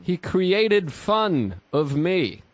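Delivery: slow mocking mimicry. Mocking the festival producer.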